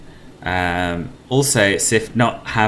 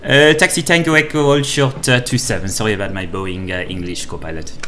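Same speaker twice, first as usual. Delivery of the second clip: put-on pilot radio call in a light French Swiss accent; 2 semitones lower than usual. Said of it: "This is, this is a French accent".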